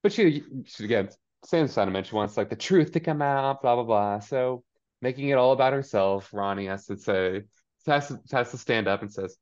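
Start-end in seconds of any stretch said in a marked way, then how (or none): none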